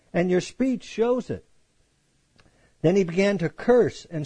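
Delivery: measured Bible reading voice; preacher reading scripture to the congregation. Acted. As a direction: read the passage like a pastor at the pulpit. Reads scripture passage aloud.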